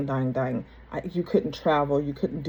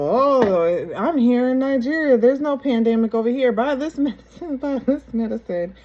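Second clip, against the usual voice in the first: high, loud mock hawker; hammed-up mocking cry, voice pitched way up; mocking sales pitch; 8 semitones higher, 6 dB louder than usual. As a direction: imitate a scammer's pitch, breaking into laughter. Mocking a friend's scam pitch.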